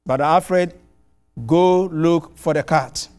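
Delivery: slow, mildly stern order; retold threat. Angry host orders his guest to find the cat, slow mild sternness. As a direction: lay down the order slowly, a hint of menace. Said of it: "he issued a threat".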